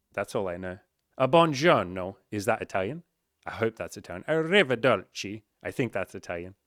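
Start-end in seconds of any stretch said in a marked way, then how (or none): 1.2-2.2 hammed-up Italian accent, slow and loud; mock Italian accent. Host jokes to listeners about his Italian, in a hammed-up Italian accent. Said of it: "love that accent". 4.3-5.4 hammed-up Italian accent, slow and loud; mock Italian accent. Host jokes to listeners about his Italian, in a hammed-up Italian accent. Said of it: "love that accent".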